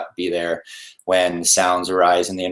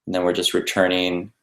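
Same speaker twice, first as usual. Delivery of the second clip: unhurried guidance with long pauses between phrases; guided meditation. Real, not acted. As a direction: lead listeners gently through breathing, leaving space after each instruction.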